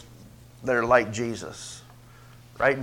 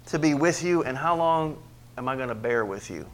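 pained frustration; 4 dB louder than usual. Acted. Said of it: "You can feel the pain".

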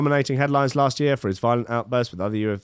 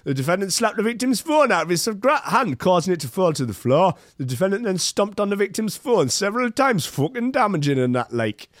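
raised, lightly done Miami accent; 7 semitones higher than usual. Shown as a demonstration. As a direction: read the report in a Miami accent. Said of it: "I'll do the Miami accent".

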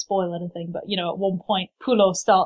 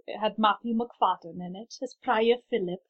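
Welsh accent; 4 dB quieter than usual. Shown as a demonstration. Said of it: "that was my terrible Welsh accent".

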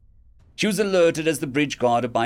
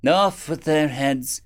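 calling out; 4 semitones higher, slower than usual. Acted. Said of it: "The queen called out".

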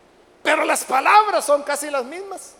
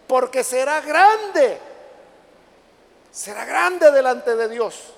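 slow, louder declaration; emphatic proclamation; 5 dB louder, slower than usual. Acted. Angel foretelling Zacarías's son, proclaimed loud and slow. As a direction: proclaim it with long drawn words.

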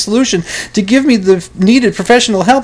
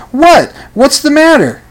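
put-on startled teen shout; 7 semitones higher than usual. Teen yelling back at his mom, high and startled. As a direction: yell it back as if caught off guard.

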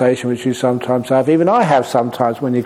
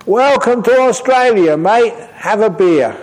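loud, high, cheery shout; shouted welcome; 9 semitones higher, 4 dB louder than usual. Retold or imitated. Fishermen shouting a welcome to the boat arrival. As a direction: hail him across the water, loud and friendly. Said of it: "they shouted out at him".

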